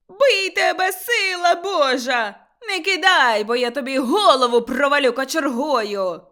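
high, loud threatening yell; old woman screaming curses; furious shout. A narrator's reading. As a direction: threaten her at full voice. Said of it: "крикнула Кайдашиха".

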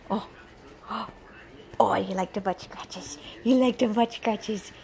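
breathy, whispery cooing to a dog. Real, not acted. Owner coaxing her timid dog with butt scratches, whispery baby talk.

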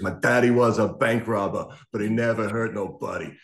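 lightly belted rock lyrics; a hint of belting English punk singer; imitating a punk singer. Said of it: "He just starts belting out the lyrics".

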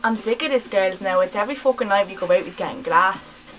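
angry rant. Acted. Ranting about boyfriend glassed.

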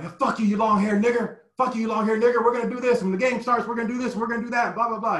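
high, loud heckling fan; jeering fan. Retold or imitated. Fan heckling a long-haired player, high loud jeering. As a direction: bark it like a taunting fan in the stands. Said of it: "So all of a sudden it was like".

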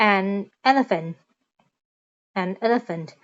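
an elephant, built up word by word; example phrase. Shown as a demonstration. Teacher modelling an elephant for beginners. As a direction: say an, then elephant, then an elephant. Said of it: "อย่างเช่น".

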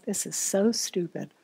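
quiet, low grumble of an inner voice; softly voiced bored complaint. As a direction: grumble it to yourself, drawing out the boredom. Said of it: "An inner voice may say something like".

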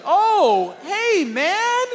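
high, over-friendly nervous greeting; forced niceness. Retold or imitated. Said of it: "I was just gonna be nice".

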